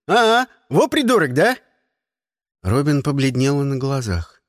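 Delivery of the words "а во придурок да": put-on jeering kid. A narrator's reading. Kid mocks escapee.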